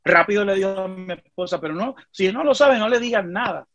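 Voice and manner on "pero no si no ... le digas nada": higher-pitched hasty warning; retold plea, pitched up; imitating urgent plea. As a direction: mimic a mother begging for secrecy. Retells mother urgently asking for secrecy.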